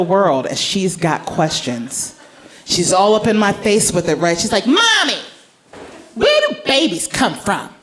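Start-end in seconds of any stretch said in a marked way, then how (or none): 4.7-7.7 put-on high curious kid asking; a sweet child's question; little girl voice.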